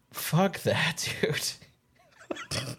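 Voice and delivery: hushed, breathless whisper. Real, not acted. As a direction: whisper it in disbelief. Awed at bear video.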